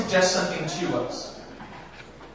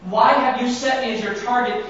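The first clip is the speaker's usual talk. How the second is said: breaking down. Retold or imitated. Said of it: "breaking down and you say".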